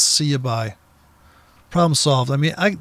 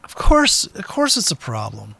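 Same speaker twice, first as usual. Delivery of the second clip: exasperated retort; 3 semitones higher than usual. Retold or imitated. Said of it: "and I thought".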